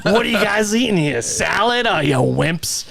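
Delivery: high-pitched mock Irish taunt; John, Irish accent. Scare actor mocking diners eating salad, imitated Irish accent. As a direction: jeer in a put-on Irish accent. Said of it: "with his, like, Irish".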